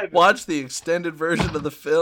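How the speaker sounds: polished movie advert delivery; promo read. Acted. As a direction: read it like a home-video trailer.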